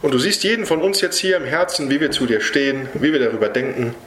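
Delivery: earnest spoken prayer to Jesus. Real, not acted. Preacher praying over the congregation at the end, earnest prayer. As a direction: pray it humbly and sincerely, addressing the Lord. Closing prayer after the sermon.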